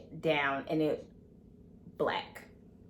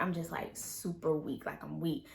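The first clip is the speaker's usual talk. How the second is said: weak; 9 dB quieter than usual. Retold or imitated. Describes being super weak after fall.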